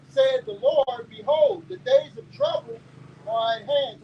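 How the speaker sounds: slow reading with a catch of tears; slow, emotional reading of the verse; tearful scripture reading. Acted. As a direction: let the Lord's words crack with feeling.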